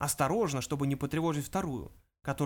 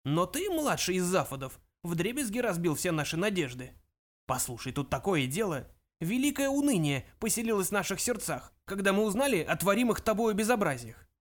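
put-on higher elderly voice, mildly scolding; lightly voiced old ancestor; reproachful old ghost; 4 semitones higher than usual. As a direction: lament the youngster's disgrace.

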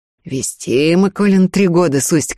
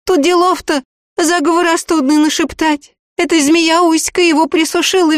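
put-on a much higher, anxious young woman's voice; pleading village girl; 12 semitones higher, 4 dB louder than usual. A narrator's reading. The girl begs the sorcerer for a spell, anxious pleading.

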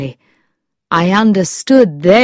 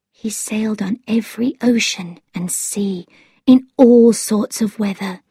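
hushed, higher voice, whispery at first; quiet; 4 semitones higher than usual. A narrator's reading. Girl by the sick man as cupboard opens, quietly. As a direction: start almost whispered, then a little firmer. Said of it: "heard her say quietly".

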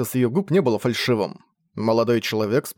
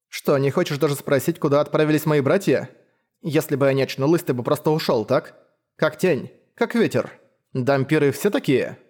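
put-on young woman voice; 2 semitones higher than usual. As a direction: probe him, half wondering. Leila questions the hunter.

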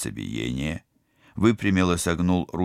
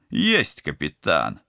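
brisk report; 2 semitones lower, slower than usual. Acted. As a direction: report like an eager soldier. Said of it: "браво отрапортовал пилот".

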